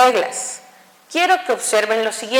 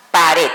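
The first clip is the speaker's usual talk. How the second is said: pared with the weight on "red"; stress on the last syllable; 5 semitones lower, 4 dB louder than usual. Shown as a demonstration. Teacher showing students where pared is stressed. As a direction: land hard on the end of pared. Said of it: "Suena más fuerte en gil".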